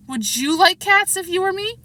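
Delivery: a mouse outraged at the question; shrill, passionate. A narrator's reading. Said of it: "in a shrill, passionate voice".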